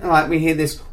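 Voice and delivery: ordinary talk, nothing marked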